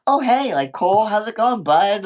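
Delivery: high, chummy fake greeting; a lightly voiced cheery buddy; mock friendly greeting. Retelling the scene, co-host voices Carter greeting Cole, high and chummy. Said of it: "He's not like".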